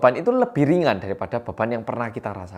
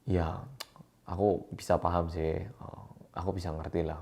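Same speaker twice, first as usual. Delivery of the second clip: offhand dismissive; 7 semitones lower, 12 dB quieter than usual. Shown as a demonstration. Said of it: "Terus aku bilang".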